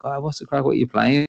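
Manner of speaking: put-on child's voice. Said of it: "other kids in the playground and be like".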